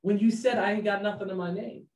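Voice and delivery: exasperated bro aside; incredulous inner voice. Retold or imitated. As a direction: call out to him like a friend who can't believe it. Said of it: "in my mind I'm thinking".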